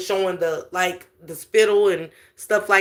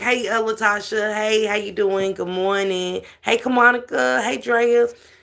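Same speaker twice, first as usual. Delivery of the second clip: put-on possessed woman's voice, slower. Describing a video of a woman said to be possessed, mimicking her changed voice. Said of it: "her voice just changed".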